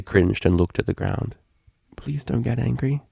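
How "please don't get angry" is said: soft, small, cringing plea; timid plea. Acted. Octavia, cringing, begging Vinyl not to get angry. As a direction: shrink away as you beg.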